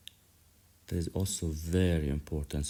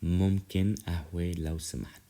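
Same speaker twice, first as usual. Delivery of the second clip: voiced and a bit louder, stressing ممكن; louder repeat; 4 dB louder than usual. Shown as a demonstration. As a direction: say ممكن قهوة لو سمحت out loud for the class to echo. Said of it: "Now do it again with me".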